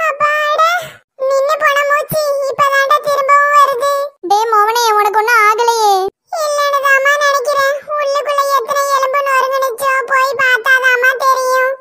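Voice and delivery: high, winded voice catching its breath; crushed man gasping with relief; breathless relief. Acted. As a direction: gasp it out, breath just back. Relief after being crushed.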